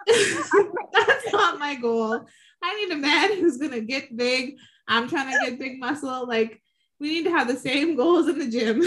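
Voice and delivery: laughing through a mock rant. Host mock-scolding a gym date, laughing. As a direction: giggle while ranting. Acted reply to dating match.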